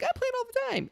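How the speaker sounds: very high imitation of a small boy; little kid's voice. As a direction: pitch it way up like a six-year-old. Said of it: "it was this little kid's voice".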